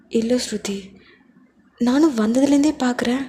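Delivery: a mom who caught her daughter crying; worried mother. Acted. Mother walks in on crying daughter, concerned.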